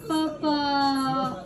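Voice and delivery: ordinary delivery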